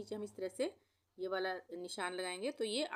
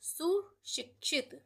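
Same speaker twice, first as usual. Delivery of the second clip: slow high; 8 semitones higher, 3 dB louder, much slower than usual. Shown as a demonstration. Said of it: "इसको भी हम इस तरह से पढ़ सकते हैं".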